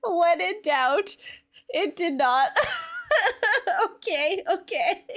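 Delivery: slow words through real laughter; amused, laughter breaking into the words; laughing. Real, not acted. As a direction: talk while still cracking up. Still laughing at own mistake.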